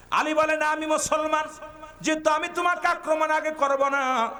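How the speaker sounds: high, ringing chanted declaration; declaimed preaching. Acted. Preacher voicing Ali facing his opponent, declaimed preaching. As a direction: raise it into a sermon chant.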